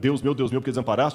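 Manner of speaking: ordinary talk, nothing marked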